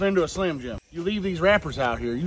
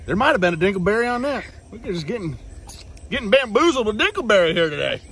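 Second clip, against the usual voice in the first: excited; 5 semitones higher, 5 dB louder than usual. Acted. Mock outrage over Bigfoot hair.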